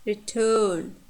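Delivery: "return" said re-TURN; weak re, strong TURN in "return"; second-syllable stress. Shown as a demonstration. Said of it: "You see the difference?".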